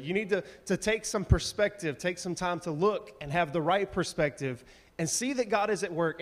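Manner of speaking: normal talking voice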